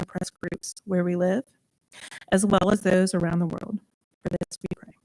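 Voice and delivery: measured, earnest prayer reading; spoken prayer. Acted. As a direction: read a congregational prayer, each phrase starting firm. Leads a prayer meditation.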